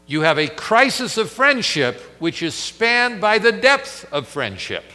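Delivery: angry reproach. Acted. Martha reproaches Jesus over Lazarus.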